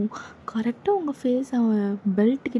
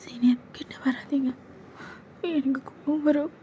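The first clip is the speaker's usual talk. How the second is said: put-on frightened girl whispering; 3 semitones higher, 4 dB quieter than usual. Junior whispering to her senior to keep away, frightened. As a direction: beg him to stay away, barely voiced.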